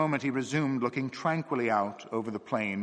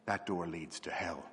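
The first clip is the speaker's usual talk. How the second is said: gently; 5 semitones lower, 7 dB quieter than usual. A narrator's reading. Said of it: "he said quite gently".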